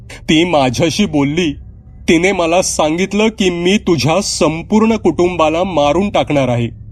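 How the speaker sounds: put-on high, pleading child voice; frightened girl. Daughter tells her father the figure threatened the family, scared.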